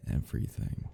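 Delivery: breathy whisper; an obsessed whisper to the victim. Acted. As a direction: breathe the word out. Stalker confessing obsession.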